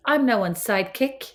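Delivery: over-enunciated stage-school diction; oddly stagey, carefully articulated line; speech and drama. Pretend. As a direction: say it like a drama-class recital. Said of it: "like you're doing speech and drama".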